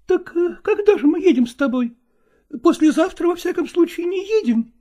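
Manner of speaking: high, pressing female voice; probing woman. Acted. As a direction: pin him down, high. Nastina questioning.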